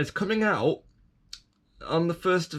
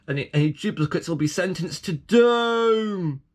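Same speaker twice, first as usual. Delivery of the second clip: mock threat; 3 semitones higher than usual. To the viewers, mock menace about duplicate figures. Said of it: "Of course, I'm joking".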